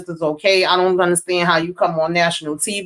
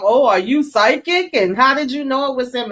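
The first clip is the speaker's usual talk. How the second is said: lightly voiced giggly girl, pitched higher; mock a giggly kid on the phone; giggly little girl; 6 semitones higher than usual. Recapping a girl teasing her mom, lightly giggly. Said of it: "And she just a giggly".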